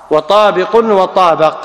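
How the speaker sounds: وطابق with a then i, slowly; two vowelings. Shown as a demonstration. To students, the two forms of وطابق, slow. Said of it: "ومن فرق بينهما".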